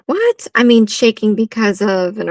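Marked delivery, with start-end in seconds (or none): 0.1-0.5 surprised. Real, not acted. Shocked by brother's story.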